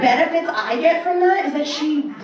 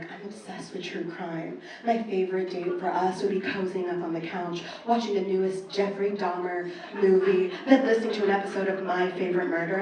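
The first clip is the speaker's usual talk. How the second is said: mock dating profile; 5 semitones lower, 7 dB quieter than usual. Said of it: "If a woman were to say".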